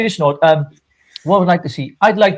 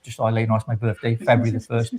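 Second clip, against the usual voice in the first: quick sly aside; 4 semitones lower, 4 dB quieter, faster than usual. Real, not acted. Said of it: "well, I dropped that in".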